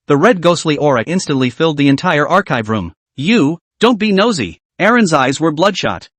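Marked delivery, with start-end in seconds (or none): 3.1-4.6 cold and piercing. Acted. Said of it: "her voice cold and piercing".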